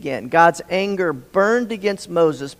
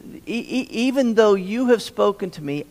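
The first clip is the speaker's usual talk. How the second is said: stuttering Moses; 3 semitones higher than usual. Retold or imitated. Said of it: "He said".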